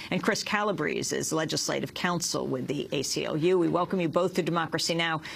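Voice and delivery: brisk anchor introducing guests; news read. Acted.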